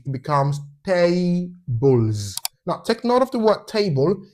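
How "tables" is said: "tables" in two slow parts, final z; voiced plural ending. Shown as a demonstration. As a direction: split "tables" as tay-bulz, drawing out the buzz. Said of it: "when you add S to it".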